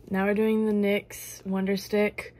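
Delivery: slow, careful beauty vlogger voice; makeup YouTuber voice. Acted. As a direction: talk it through like a makeup tutorial. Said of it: "do the makeup YouTuber voice".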